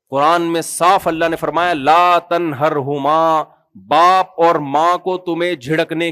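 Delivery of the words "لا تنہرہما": Quranic recitation. Shown as a demonstration. Quoting the Quran.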